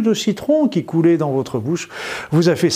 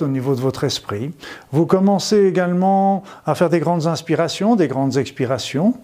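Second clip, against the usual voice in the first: sultry narrator. Acted. Leads a guided visualization.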